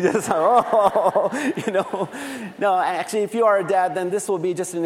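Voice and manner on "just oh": playful mock wail with a laugh; hammed-up moan, half laughing; mock weeping. Joking to dads about weeping, mock wail. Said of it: "you can just weep with me".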